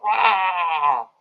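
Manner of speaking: high cartoon yell "aah"; mock yell. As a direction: imitate a little dinosaur yelling, not full force. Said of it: "yells at the T-Rex".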